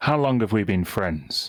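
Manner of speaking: voice of a profound celestial being. Voicing a solar asking a player how long they've been friends: much deeper, more profound voice. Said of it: "With this much deeper, more profound voice".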